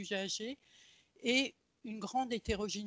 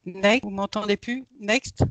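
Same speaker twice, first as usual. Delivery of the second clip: appel plus fort; 11 dB louder than usual. Real, not acted. Appelle, le son ne passe plus.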